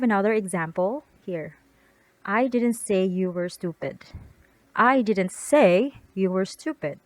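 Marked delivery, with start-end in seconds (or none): 2.2-4.0 "I" punched at the start, rest falling; stress on I. Shown as a demonstration. Teacher shows emphasis on I to her students. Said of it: "The word emphasis is different". 4.7-7.0 "I" hit louder, falling after; weight on "I" before "didn't"; stress on I. Shown as a demonstration. Teacher repeats the sentence, stressing I for her class. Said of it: "The word emphasis is different".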